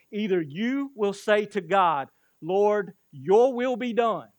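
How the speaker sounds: slow, loud, high declaration; surrendering to God. Retold or imitated. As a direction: proclaim it as a prayer of surrender. Quote contrasts man yielding to God.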